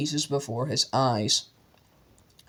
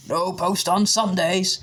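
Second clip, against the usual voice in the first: slow, pleased and higher; happy; 4 semitones higher, slower than usual. A narrator's reading. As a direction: gloat cheerfully. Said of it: "he reminded them happily".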